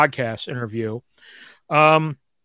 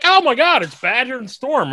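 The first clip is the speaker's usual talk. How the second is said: excited fan squeal; 10 semitones higher than usual. Retold or imitated. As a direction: gush like a starstruck fan. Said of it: "they're like".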